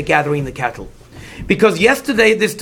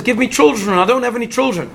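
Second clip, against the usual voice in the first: higher-pitched, mildly voiced complaint; complaining wife; 4 semitones higher than usual. Rachel complains to Yaakov that she has no children, mildly complaining. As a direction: lightly act out a wife's plea. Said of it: "Rachel complains to Yaakov".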